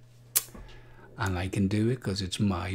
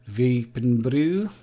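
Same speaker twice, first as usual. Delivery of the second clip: odd drawn out brew; 3 dB louder than usual. Acted. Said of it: "I don't know why I said it like that".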